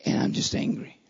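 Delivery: "And I'm just angry" whispered; hushed whisper. Acted. Preacher voicing a weary believer, in a whisper. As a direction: breathe it as a whispered confession.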